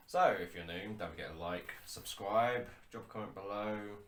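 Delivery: upbeat commercial read, loud at the start. Acted. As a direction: pitch it like a TV ad. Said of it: "I sound like an ad".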